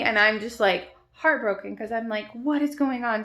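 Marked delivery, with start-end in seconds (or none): 2.3-3.2 higher, louder baffled question; retold bewilderment. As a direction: relive the alarm in a raised voice. Retells own bewildered alarm.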